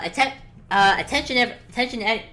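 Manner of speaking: lightly voiced public announcement; loud announcer. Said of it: "a loud announcer, obviously enhanced by magic".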